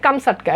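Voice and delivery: "কামসাটকা" pronounced kam-sat-ka; correct pronunciation. Shown as a demonstration. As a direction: model "কামসাটকা" with a plain "sat" syllable. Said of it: "প্রকৃত উচ্চারণ হচ্ছে".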